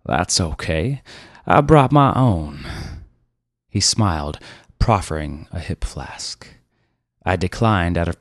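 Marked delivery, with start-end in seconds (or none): 0.1-2.7 brash car dealer. Acted. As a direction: lean into the punchline. Dealer shows his flask.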